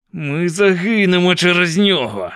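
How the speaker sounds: high wail in a character voice; yelling in panic. A narrator's reading. Benjamin yells that they are all doomed, panicked yell. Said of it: "репетує Бен'ямін".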